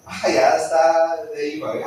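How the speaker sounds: mocking enemy cackling over a sinner; the adversary gloats as a believer defies God, with a jeering laugh; gloating devil. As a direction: sneer it out with a laugh, rising to a shout.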